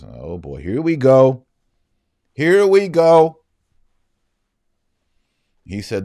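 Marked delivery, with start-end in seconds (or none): 0.6-1.5 exasperated. Real, not acted. Exasperated at the priest's reply. 2.3-3.4 louder, higher, slow drawn-out groan of here we go; weary dramatic sigh of resignation; exasperated. Real, not acted. Repeated louder, slower.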